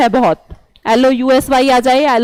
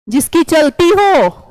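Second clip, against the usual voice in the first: slow emphasis; 3 semitones higher, slower than usual. Shown as a demonstration. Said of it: "teacher stressing definition".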